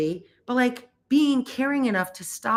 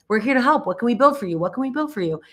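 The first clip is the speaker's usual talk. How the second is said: eager pushy pitch; 4 semitones higher, faster than usual. Retold or imitated. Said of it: "fast and furious".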